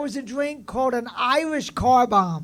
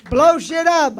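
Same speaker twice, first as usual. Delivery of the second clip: the tagline punched out, a bit louder; host trying the tagline on the crowd, said louder; louder take of the tagline; 3 semitones higher, 6 dB louder, slower than usual. Shown as a demonstration. Host repeats heckler's tagline louder. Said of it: "I don't even know what that means".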